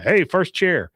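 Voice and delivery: calling out. Retold or imitated. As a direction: imitate a customer hailing someone. Acted customer calling out.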